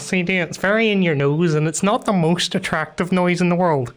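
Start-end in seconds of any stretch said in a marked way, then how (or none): 0.0-0.4 nasal East Belfast vowels, said high; East Belfast accent. Shown as a demonstration. Belfast speaker showing how East Belfast folk talk, East Belfast accent. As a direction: put on a strong East Belfast accent for two letters. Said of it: "you probably talk like this".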